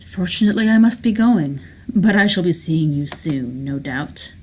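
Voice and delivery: lightly voiced villain's grand farewell; self-assured schemer Rourke, parting. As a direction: take your leave with assurance.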